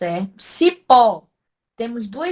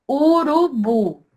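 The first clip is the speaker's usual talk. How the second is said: "Urubu" drawn out slowly, syllable by syllable, loud and high; stress on last syllable; 5 semitones higher, 5 dB louder, much slower than usual. Shown as a demonstration. Teacher sounding out Urubu to find the strong syllable, slow stressed demonstration. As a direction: stretch "Urubu" in slow pieces, leaning on "bu". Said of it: "é a mais forte".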